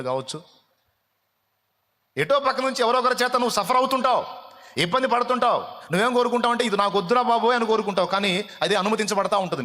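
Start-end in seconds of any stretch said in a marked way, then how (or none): 2.2-9.6 high, loud, driving sermon voice; fiery preaching. Acted. Pastor pressing the congregation about their suffering, in a loud, high preaching voice. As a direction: preach it hard and high to the back row.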